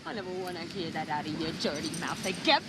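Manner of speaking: fast, hissed fury; fast angry outburst; furious. Acted. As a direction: spit it at the cheating husband. Wife furious at cheating husband.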